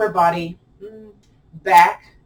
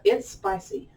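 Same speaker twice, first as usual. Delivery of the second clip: high, squeaked-up pitch; voice going up; 11 semitones higher, 4 dB quieter than usual. Shown as a demonstration. Teacher demonstrating how intensity sounds, in a high voice. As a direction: jump the voice way up to show the burn. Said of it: "When my voice goes up".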